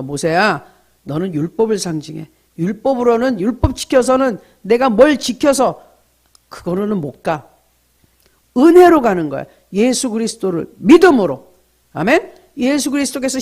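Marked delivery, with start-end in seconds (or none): 0.0-11.5 God's declaration. Acted. God explaining to Moses.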